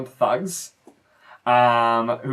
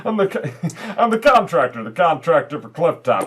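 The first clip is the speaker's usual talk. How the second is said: himbo voice. Acted. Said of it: "I already like Ron McGurty".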